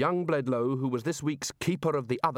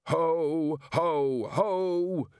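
furious yell; 5 semitones higher, much slower than usual. A narrator's reading. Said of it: "yelled Macabre, beside himself with fury".

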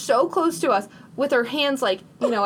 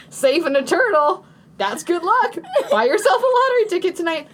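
homeless guy in a higher-pitched mock Boston accent; hammed-up Boston accent, pitched up; put-on Boston accent; 8 semitones higher, 3 dB louder than usual. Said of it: "this happened in Boston".

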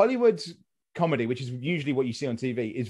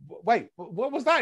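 mock confusion; 6 semitones higher than usual. American PR guy confused.

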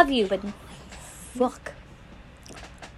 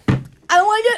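high, slow, laughing repeat of the verdict; 11 semitones higher, 10 dB louder, slower than usual. Real, not acted. Friend repeats her verdict on the drink, laughing. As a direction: laugh it out, louder and higher.

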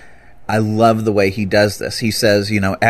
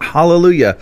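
mock crying out; 7 semitones higher, 3 dB louder than usual. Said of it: "crying out".

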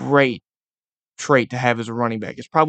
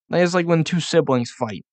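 normal talking voice

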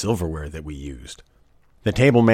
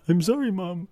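put-on higher, softer childish "sorry"; meek kid apology; 10 semitones higher, 4 dB quieter than usual. A scolded daughter apologizing to her mom, higher and softer.

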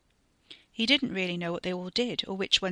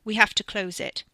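louder, urgent insistence; 2 semitones higher, 6 dB louder than usual. Acted. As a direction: insist with rising panic. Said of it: "Carrie said urgently".

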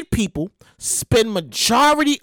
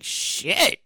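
whispered; 6 dB quieter than usual. Retold or imitated. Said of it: "I was like".

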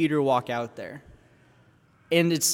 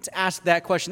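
mock incredulous, starting high; exasperated disbelief; 5 semitones higher than usual. Fellow disciple thinking at Peter, exasperated. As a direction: question him in lightly acted exasperation. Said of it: "And you're thinking".

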